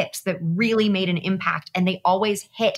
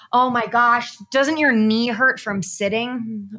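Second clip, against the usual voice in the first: mock complaining; 3 semitones higher, slower than usual.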